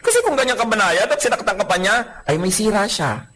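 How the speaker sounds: normal talking voice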